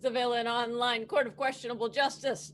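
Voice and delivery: formal court crier call; town crier. Acted. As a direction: proclaim like a court bailiff. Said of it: "Bailiff, please swear in".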